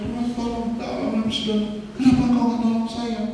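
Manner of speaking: high-pitched plea for help, acted; mock desperate cry. Drowned man retelling his cries to God, high mock pleading. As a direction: imitate a flood victim calling out. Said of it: "Saya teriak".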